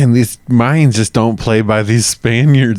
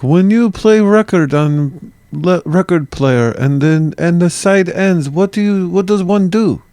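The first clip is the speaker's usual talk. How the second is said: Mayan impression; 8 semitones higher than usual. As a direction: pretend Mayan accent, pitched way up. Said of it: "that's my impression of Mayan people".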